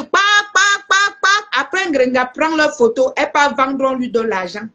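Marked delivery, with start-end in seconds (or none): 0.0-1.3 higher-pitched mock cries of false prophets; imitated crying out. Mimicking false prophets who come to shout, mock crying out. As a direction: cry out each syllable, pitched up. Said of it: "viennent crier".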